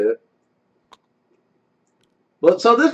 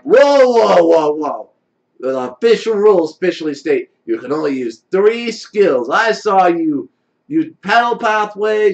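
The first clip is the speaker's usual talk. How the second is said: stern judge; 4 dB louder than usual. Acted. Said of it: "Jerry is immediately gonna be like".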